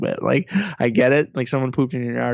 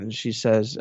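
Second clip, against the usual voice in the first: usual speaking voice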